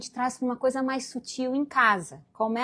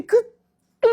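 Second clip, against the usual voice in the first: stifled sob; 9 semitones higher, 9 dB louder than usual. Retold or imitated. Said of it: "faz assim".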